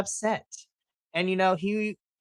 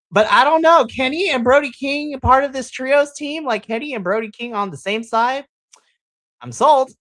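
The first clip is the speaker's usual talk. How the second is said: louder, higher, thrilled fan gushing; excited gush; 7 semitones higher, 7 dB louder than usual. Real, not acted. Fan reacting to Kenny and Brody King teaming up, loud excited gushing. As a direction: hype it up like a delighted fan. Excited about dream team-up.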